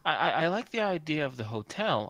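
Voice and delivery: a hint of a prissy snob; August's snooty high voice. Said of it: "August says in his little snooty high voice".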